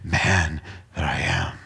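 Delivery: slow, soft broken confession; slow, hushed cry of a sinner; slow lament. Acted. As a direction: drag it out in sorrow. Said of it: "willing to say".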